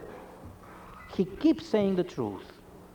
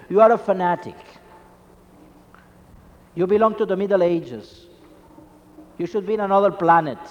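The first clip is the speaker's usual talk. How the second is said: mock scorn; 3 dB louder, faster than usual. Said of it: "your friends are going to say about you".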